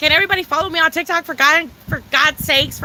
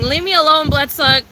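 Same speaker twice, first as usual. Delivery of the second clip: slurring NPC voice. Pretend. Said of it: "The slurring".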